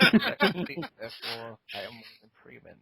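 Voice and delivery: jokey solemn actor voice; Morgan Freeman. Acted. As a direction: draw out the first word, then finish hushed. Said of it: "devolves to my Morgan Freeman".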